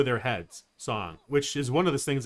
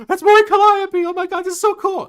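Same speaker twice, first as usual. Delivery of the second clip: high, loud fangirl squeal; excited; 11 dB louder than usual. Retold or imitated. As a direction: gush with pure delight. Retold excited recognition.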